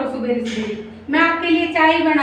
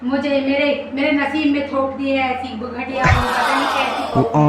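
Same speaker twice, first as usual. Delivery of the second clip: grumbling mother-in-law; 3 semitones lower than usual. Acted. Mother-in-law complaining to the audience about her son's wife, mildly whiny. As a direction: sigh about the worthless daughter-in-law like a put-upon elder.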